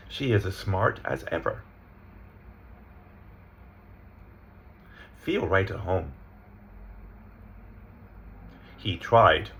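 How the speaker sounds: measured, separate example readings; reading example sentences. Shown as a demonstration. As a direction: read each with small words unstressed. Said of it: "I'm gonna read the sentences".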